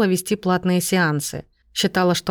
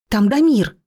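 ordinary delivery, nothing marked

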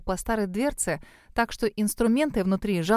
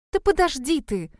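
angry; 5 semitones higher than usual. A narrator's reading. Cassie snaps at Grove, pulling her hand away. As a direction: snap at him to wait. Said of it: "рассердилась я".

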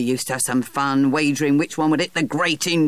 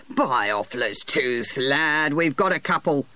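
1 cried out. A narrator's reading. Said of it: "he cried".

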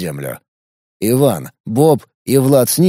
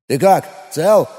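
alarmed, higher call; worried call; 5 semitones higher than usual. Acted. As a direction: call out anxiously to a fallen friend. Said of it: "звучит встревоженно и как-то отдалённо".

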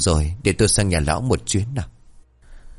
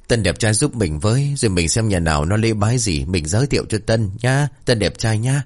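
wheedling. Acted. Phú begs handsome Tân for help, lightly wheedling. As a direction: coax him with flattery. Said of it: "ông bỏ mẹ cái giọng đó đi".

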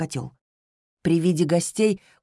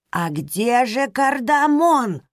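high, louder and slow anxious question; nervous fretting; 6 semitones higher, 4 dB louder, slower than usual. Acted. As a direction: fret over the spice. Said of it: "продолжала нервничать Мирабель". (нервно, суетливо)

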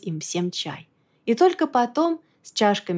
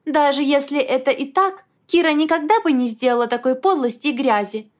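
indignant; 6 semitones higher, 3 dB louder than usual. A narrator's reading. Wife furious defending Kira.

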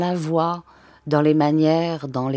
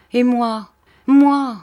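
put-on high, louder childlike whine; child's voice; 7 semitones higher, 7 dB louder, slower than usual. A narrator's reading. Countess jealous of the grape pickers, childlike and high. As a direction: sound like a hungry little girl. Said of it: "d'une voix d'enfant".

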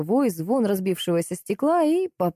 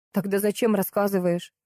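ordinary delivery

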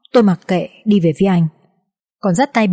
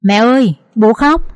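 put-on child calling; 3 semitones higher, 3 dB louder than usual. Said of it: "Bình cất lên".

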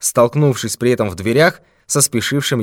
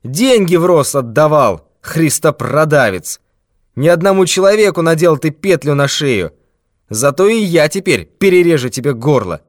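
threatening thief; 5 semitones higher, 4 dB louder than usual. Acted. Thief threatens old man with death, menacing. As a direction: promise him his last hour.

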